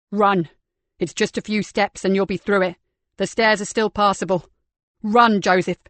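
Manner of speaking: yelling over the flames; urgent yell. Acted. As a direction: push him on with a shout. John yelling through flames.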